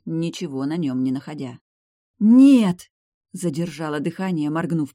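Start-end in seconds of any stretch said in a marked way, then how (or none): 2.2-2.9 very loud, high gasp of a no; shocked cry. Acted. Heroine finds the mark gone, loud high cry.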